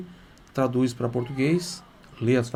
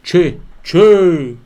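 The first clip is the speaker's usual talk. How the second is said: joking gaúcho "Che, che", much higher and louder; Rio Grande do Sul accent; 5 semitones higher, 11 dB louder than usual. Retold or imitated. Teacher jokes with students by mimicking a loud Rio Grande do Sul che. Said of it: "como o pessoal fala no Rio Grande do Sul".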